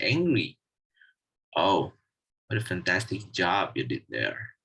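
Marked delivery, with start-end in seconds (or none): 1.6-4.6 lower, rising-and-falling mock praise; sarcastic praise with a falling end. Shown as a demonstration. Teacher showing students how intonation conveys sarcasm, mildly sarcastic. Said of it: "it conveys sarcastic meaning".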